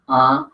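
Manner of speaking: a high, sharp accented "A". Shown as a demonstration. Teacher reviewing the vowels, demoing a high accented "A". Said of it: "como una A larga o con una A acentuada".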